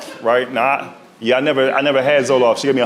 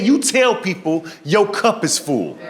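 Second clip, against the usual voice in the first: doctor advice; 4 semitones higher, slower than usual. Retold or imitated. Voicing doctor giving advice.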